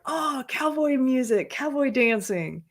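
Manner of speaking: high, drawn-out imitation of excited fans; thrilled crowd. Imitating European fans going crazy over country songs, excited. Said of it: "they go crazy".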